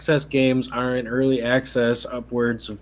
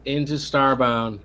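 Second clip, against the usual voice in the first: salty, pitched-up complaint; 3 semitones higher, 3 dB louder than usual. Real, not acted. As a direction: stress the hours lost, still sore. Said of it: "this guy's salty still".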